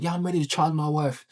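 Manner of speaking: imitating a British client's accent; mock British English, echoing the client. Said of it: "she has an accent".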